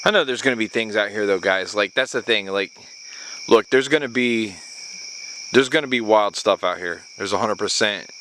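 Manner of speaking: ordinary talk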